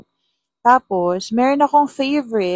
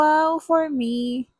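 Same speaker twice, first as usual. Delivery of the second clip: mock delighted wow; 7 semitones higher, much slower than usual. Sarcastic wow on seeing flowers.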